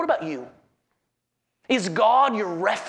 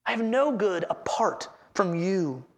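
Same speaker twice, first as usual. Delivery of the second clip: a hushed, sincere echo of the verse; quiet echo; 3 semitones lower, 4 dB quieter than usual. Shown as a demonstration. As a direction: repeat it quietly, letting it sink in.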